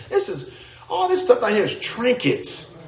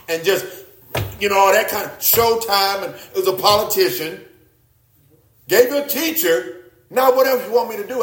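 raised, exasperated voice of God; God speaking; 3 semitones higher than usual. Retold or imitated. God rebuking believers who keep begging, exasperated. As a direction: let God scold his people, fed up. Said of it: "He wants to say".

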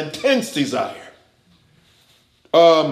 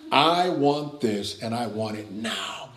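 demanding flesh; 6 semitones lower, 7 dB quieter than usual. Retold or imitated. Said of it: "It's not, it's not asking questions".

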